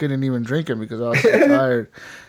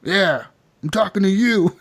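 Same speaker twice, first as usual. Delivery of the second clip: higher retort breaking into laughter; laughing mock challenge; 6 semitones higher than usual. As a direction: act the comeback while about to crack up. Acted bar quarrel, through laughter.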